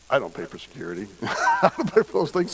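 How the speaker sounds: laughing. Real, not acted. Laughs while telling.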